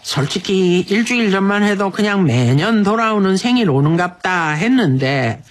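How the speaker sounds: unhurried, performed Busan-dialect letter reading. Acted. Radio host reads husband's letter for wife's sixtieth, Busan dialect.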